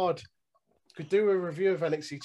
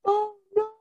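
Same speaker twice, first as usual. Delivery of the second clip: groaning at a pun; 7 dB louder than usual. Real, not acted. Reacting to pun.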